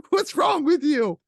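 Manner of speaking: high, slow disbelieving cry; slow, high, horrified what's-wrong-with-you; incredulous. Retold or imitated. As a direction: ask it aghast, voice jumping up. Reacting to the tomato confession.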